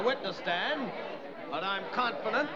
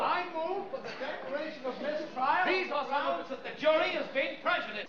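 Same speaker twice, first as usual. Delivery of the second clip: raised, heated objection; indignant protest; 6 semitones higher than usual. Acted. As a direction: protest it, pitched up.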